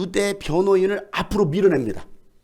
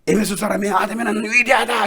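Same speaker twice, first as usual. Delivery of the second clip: shouted praise for the crowd; shouted demo; 4 semitones higher than usual. Shown as a demonstration. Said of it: "얼마나 크게 소리쳤는지".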